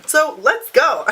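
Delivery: excited rally. Real, not acted. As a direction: pump yourself up to head out. Rallying herself to leave.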